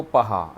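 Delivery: पहा said slowly with a clear h; पहा with a short h after the vowel; visarga sound shown. Shown as a demonstration. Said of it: "क को कहा".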